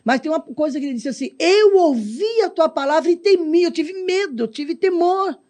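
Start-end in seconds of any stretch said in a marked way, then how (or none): 1.4-5.4 preaching. Acted. Preacher quoting scripture with fervor.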